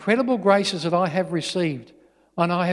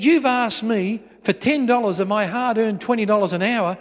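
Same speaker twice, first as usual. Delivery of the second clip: higher-pitched indignant complaint; lightly acted cross dad; irate father; 5 semitones higher than usual. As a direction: take your child to task, mildly heated. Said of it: "starts to get really irate and really upset".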